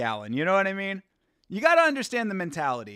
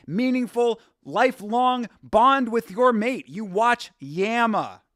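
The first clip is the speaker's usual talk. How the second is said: slow, louder, hammed-up sermon on love; mock solemn advice; 4 semitones higher, 4 dB louder than usual. Streamer telling a couple in chat to watch Yama, in mock-solemn slow advice. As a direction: preach it like a cheesy ad pitch.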